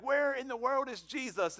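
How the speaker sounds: high-pitched mock panic; hammed-up frantic question; freaking-out disciples. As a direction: imitate alarmed disciples, voice jumping up. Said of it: "the disciples are freaking out".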